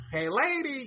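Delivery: Gilbert Gottfried impression. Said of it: "He had a very screechy, annoying Jewish voice".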